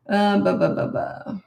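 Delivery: testing a hoarse voice; breathy voice check; raspy whisper. Real, not acted. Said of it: "I'm losing my voice".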